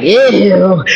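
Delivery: drawn-out imitated "ew"; disgusted. Preacher imitating everybody's reaction, mock disgust. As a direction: stretch out a mock groan of disgust. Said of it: "everybody was like".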